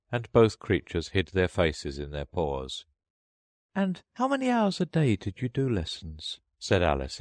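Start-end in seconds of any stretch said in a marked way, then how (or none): 3.7-6.4 put-on high, eager girl's voice; hurried subject change. A narrator's reading. Alice in a hurry to change the subject, high-voiced. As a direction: jump in high to steer talk elsewhere. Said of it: "in a hurry to change the subject".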